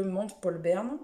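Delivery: English place name in a French mouth, slowed; attempted English accent. Shown as a demonstration. Book vlogger naming the island to viewers, attempted English accent. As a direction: try "Montpolberne" with an English accent. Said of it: "Quel accent".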